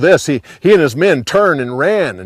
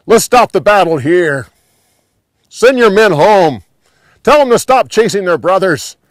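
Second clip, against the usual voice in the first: raised, higher calling voice; yelled appeal; 5 semitones higher, 6 dB louder than usual. A narrator's reading. Abner calls on Joab to end the battle, yelling. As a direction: call across to the other army. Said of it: "Abner yelled to Joab".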